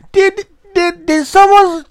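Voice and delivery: high-pitched, baffled stoned voice; stoned guy. Pretend. Pretend stoned viewer asking.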